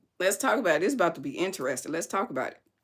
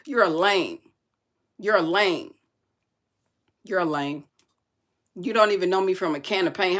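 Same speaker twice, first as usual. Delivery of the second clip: heated rant; 3 semitones higher, 5 dB louder than usual. Real, not acted. Ranting at a commenter.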